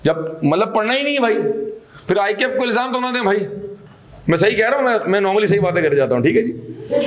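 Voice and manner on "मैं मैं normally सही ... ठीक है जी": laughing. Real, not acted. Teacher jokes about being right.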